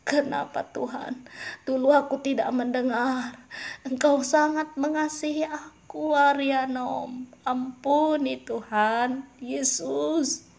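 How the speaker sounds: acted wail of a sinner asking mercy; remorseful plea. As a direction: cry out in regret as a lost soul. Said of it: "akan ada perkataan".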